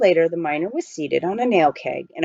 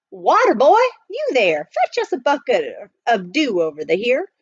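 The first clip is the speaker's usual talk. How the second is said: put-on old miner voice; 5 semitones higher than usual. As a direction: play the chatty gold miner. Miner thanks and calls.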